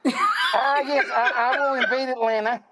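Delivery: Rapper impression with Southern accent. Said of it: "why does the rapper have a Southern accent".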